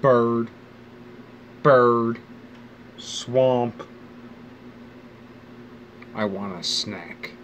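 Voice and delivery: put-on child's voice, then a slow "I want a snack"; little kid voice. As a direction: play a clueless kid naming things. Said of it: "I was just like".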